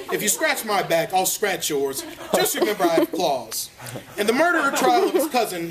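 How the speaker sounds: mildly formal storybook reading, lifted from chat; understated deadpan story narrator; mock biography narration. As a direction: read it out like a tongue-in-cheek memoir introduction.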